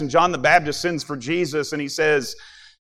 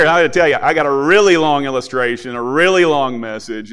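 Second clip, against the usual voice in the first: REALLY stretched out and punched louder; mock-serious exaggeration; 6 dB louder than usual. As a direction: tease them by leaning hard on "really". Mock warning, then "I'm joking.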